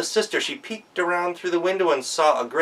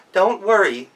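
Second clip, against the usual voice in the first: put-on bright girl's voice, a touch higher; eager young goat; oldest daughter; 6 semitones higher, 6 dB louder than usual. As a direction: reassure mom like an eager kid. Oldest daughter reassures mother.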